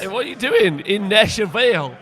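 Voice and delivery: mock Southern American accent, drawled. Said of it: "That's my American accent".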